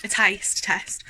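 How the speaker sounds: slow breathy whisper. Real, not acted. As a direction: drop to a secret whisper. Drops to a whisper mid-sentence.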